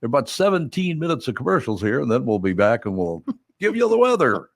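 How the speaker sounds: a lightly hammed-up chirpy DJ read; a hint of a cheesy radio announcer; mock radio DJ voice. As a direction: tease the overexcited morning-show host. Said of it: "back to talking like this".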